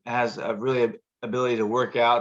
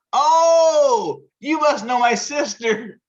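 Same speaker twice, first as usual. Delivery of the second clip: high amused oh, laughing through the line; delighted realization, chuckling; woman retold laughing, pitched up; 12 semitones higher, 7 dB louder, much slower than usual. Sister voiced, amused.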